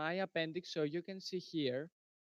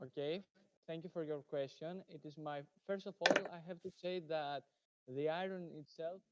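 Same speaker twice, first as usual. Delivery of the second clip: too quiet; 8 dB quieter than usual. Real, not acted. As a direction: answer softly, barely projecting. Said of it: "can you please, uh, speak louder".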